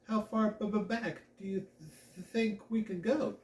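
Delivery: stammering, nervous and unsure; nervous stutter. Acted. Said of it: "I sometimes stutter when I get nervous".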